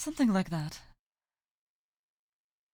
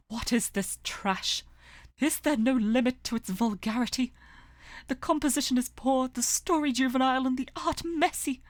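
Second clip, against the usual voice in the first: scornful, louder royal disdain; haughty anger; 4 semitones higher, 4 dB louder than usual. Acted. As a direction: sneer at the book like a spoiled prince. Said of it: "a fantail angrily beating a book".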